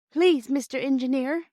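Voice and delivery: put-on high, slow, tearful little girl's plea; a sniffling girl begging the driver, slowly. A narrator's reading. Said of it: "She sniffed again".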